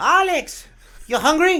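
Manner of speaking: very high, loud grandmother voice with Korean accent.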